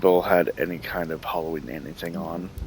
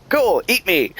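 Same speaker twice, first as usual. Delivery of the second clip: high, loud mock eagerness; gleeful retort; 11 semitones higher, 5 dB louder than usual. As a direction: call back as if thrilled to be prey. Retelling own retort to haunt actor.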